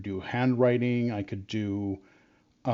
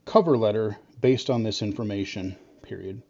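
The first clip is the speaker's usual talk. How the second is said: dictating. Real, not acted. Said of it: "let me dictate this".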